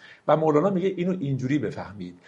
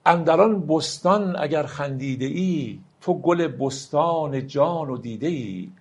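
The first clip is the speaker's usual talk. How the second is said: slow, solemn verse reading; slow poem recital; slower than usual. Acted. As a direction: let each line of the poem ring out slowly. Recites Rumi verse slowly. (دکلمهٔ آرام و باوقار شعر مولانا)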